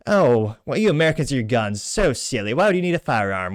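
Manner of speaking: a badly faked British accent, mocking; hammed-up British accent, lightly done; terrible British accent. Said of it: "yeah, it was a terrible accent".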